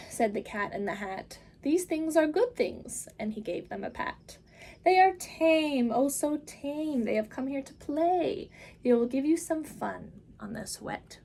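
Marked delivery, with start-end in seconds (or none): 1.6-3.1 bright, higher, louder showman cat; the Cat in the Hat calming the children, big and upbeat. Acted. Cat reassures. 4.8-11.2 bright, higher, louder showman cat; the Cat in the Hat calming the children, big and upbeat. Acted. Cat soothes, slowing.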